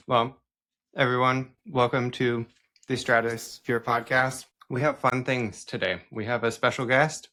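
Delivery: talking through a mouthful; chewing while hosting; mouth full. Real, not acted. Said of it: "'cause my mouth is full".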